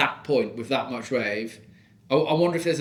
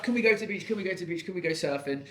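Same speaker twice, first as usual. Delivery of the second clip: put-on whiny kids voice; 6 semitones higher, 4 dB quieter, faster than usual. Kids voiced nagging parent.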